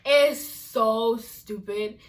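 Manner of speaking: slow, loud, dragged out in disbelief; exasperated stress. Real, not acted. Ranting to viewers about an ignorant statement, slow and loud. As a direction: lean hard on every word.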